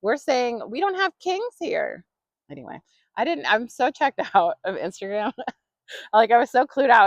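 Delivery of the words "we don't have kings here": high, slow, mock-grand declaration; defiant proclamation. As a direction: proclaim it like a lightly hammed-up royal decree. Mock proclamation against authority.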